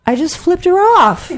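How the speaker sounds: proud, punchy reveal; gleeful punchline. Real, not acted. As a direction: land the defiant payoff. Punchline, raised voice.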